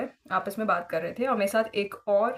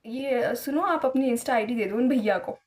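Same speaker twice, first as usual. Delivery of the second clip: a hint of a cheeky boy asking for the ID; imitating the pushy boy; 3 semitones higher than usual. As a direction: lightly act out the boy pestering for her ID. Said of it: "देखो ऐसे मैं same बता रही हूँ उसका".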